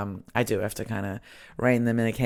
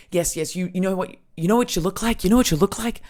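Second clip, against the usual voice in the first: higher, quick, badly faked old Scotsman; muddled Scottish accent; 7 semitones higher, 4 dB louder, faster than usual. Old Scotsman sizing up my friend, badly faked Scottish accent. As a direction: imitate an excitable old Scot, accent slipping. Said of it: "I don't know what this accent is".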